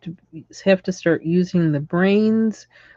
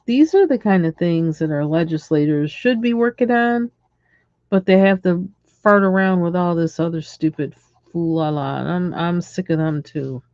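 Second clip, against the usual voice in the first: normal talking voice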